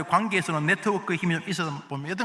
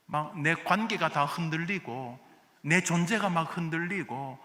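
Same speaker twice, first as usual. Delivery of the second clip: honest prayer. Retold or imitated. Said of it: "라고 인정함".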